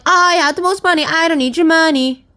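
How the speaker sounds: loud, high and haughty king; snobbish king. Acted. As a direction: play the rich king who needs nothing. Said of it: "And they are like".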